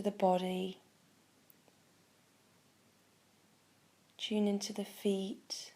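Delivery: calm guiding voice with long pauses between phrases; guided meditation. Acted. Meditation teacher guiding listeners to tune in to the body, calm guided meditation. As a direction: ease them into the practice, unhurried.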